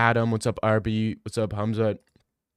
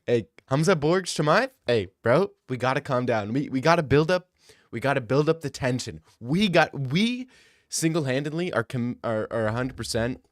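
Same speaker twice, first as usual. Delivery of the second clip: put-on hyped-up South African accent; a half-held South African accent. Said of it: "That's a pretty good accent".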